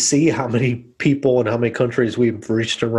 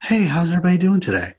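higher, fast, bright announcer greeting; polished post-edit voice; 5 semitones higher, faster than usual. Shown as a demonstration. Joking to co-host about her edited podcast voice, slick announcer. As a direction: sound like a slick radio host. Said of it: "this is my post-edit voice".

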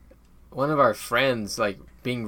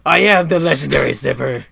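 loud, theatrical villain voice; booming put-on villain proclamation; Mandarin; 11 dB louder than usual. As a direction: declare it as a grandiose movie villain. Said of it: "do it in the Mandarin voice".

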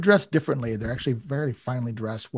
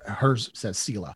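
normal talking voice

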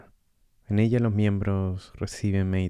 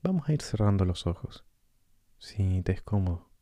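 calm meditation guide with long pauses; guided meditation. Acted. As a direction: gently guide the listener through breathing, leaving space between phrases.

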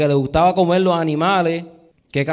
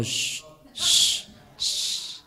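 shushing; 7 semitones lower, 9 dB quieter, much slower than usual. Real, not acted. Hushing the interrupting pastor.

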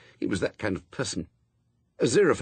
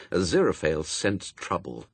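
ordinary delivery, nothing marked

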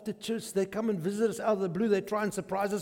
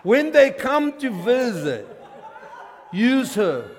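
laughing; 4 semitones higher, 5 dB louder than usual. Retold or imitated. Retelling cousin's prayer, laughing.

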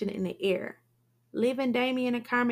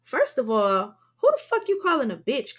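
1 yell; 5 semitones higher, 6 dB louder than usual. A narrator's reading. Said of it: "Carmen yells".

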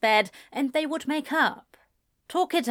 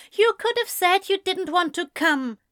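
gritted out; 9 semitones higher, 4 dB louder than usual. A narrator's reading. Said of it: "Ezra grit out".

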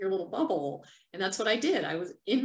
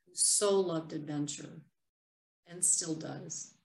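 reading a personal poem. Acted. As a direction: read it like a private journal entry, gently. Reads her own written piece aloud.

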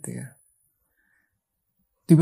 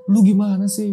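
a touch of annoyed scolding, pitched higher; mock angry; 4 semitones higher, 4 dB louder than usual. Locked-out friend scolds Hasan, mild mock anger. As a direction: retell the friend's complaint with mild heat. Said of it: "Si B marah-marah dong".

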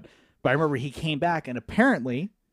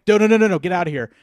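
mock yell; 4 semitones higher, 7 dB louder, faster than usual. Stopping friend peeing on car.

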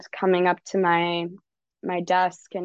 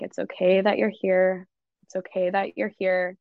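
gentle self-reassurance. Shown as a demonstration. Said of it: "ground yourself in this phrase".

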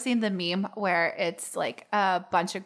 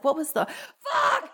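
confused; 10 semitones higher, slower than usual. Retold or imitated. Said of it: "he's like".

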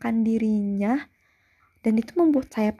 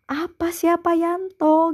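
higher-pitched mock ha-ha-ha, then the question; imitating a laughed-off question; retold scoffing laugh; 6 semitones higher than usual. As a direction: voice your own past reply, pitched up. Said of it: "Aku bilang, "Hahaha".

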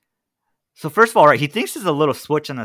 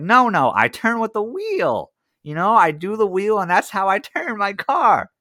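mock dumb caller; 7 semitones higher than usual. Friend plays dumb to salesman.

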